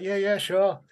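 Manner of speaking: high, obliging retold yes; retold agreement. His reply to eager kids.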